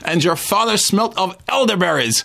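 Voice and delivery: playful Monty Python French accent impression; mock French taunter. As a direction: jeer down from the battlements in a silly French accent. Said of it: "that was the French voice that John Cleese used".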